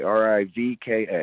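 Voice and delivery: reading letters back; spelling it out. Real, not acted. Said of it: "can you spell that for me".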